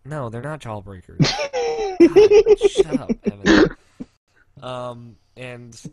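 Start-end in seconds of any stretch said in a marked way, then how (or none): 1.2-3.7 loud, high, helpless laughter through the words; real laughing protest. Real, not acted. Host telling a teasing co-host to shut up, laughing hard. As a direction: crack up while telling someone off.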